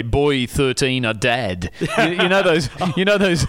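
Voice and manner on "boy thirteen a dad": tabloid headline read. Retold or imitated. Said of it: "that say".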